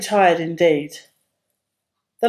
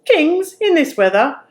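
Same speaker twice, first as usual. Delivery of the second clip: higher, scornful roar of a cross farmer; mock the foolish question; 8 semitones higher than usual. A narrator's reading. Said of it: "roared the farmer".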